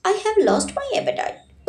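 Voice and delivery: slow, irked retort; irritated. A narrator's reading. Daughter snapping at her mother, slow irritated retort. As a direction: drag each word out in annoyance. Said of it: "उसने चिढ़कर कहा".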